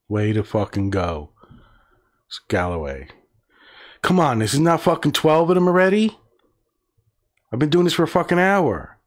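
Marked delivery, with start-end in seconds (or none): 4.0-9.0 high-pitched, rising exasperated protest; exasperated complaint. Real, not acted. Reader fed up after an hour of this, exasperated. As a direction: protest in disbelief, pitch climbing. Complains the list runs too long.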